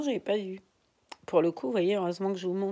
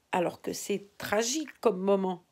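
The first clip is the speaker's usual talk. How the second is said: normal talking voice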